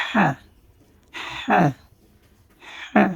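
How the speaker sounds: হ্যাঁ as "ha" with a strong throaty h; হ্যাঁ from the throat. Shown as a demonstration. Teacher models the Arabic letter, throaty h in হ্যাঁ. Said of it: "ভিতর থেকে আসতে হবে".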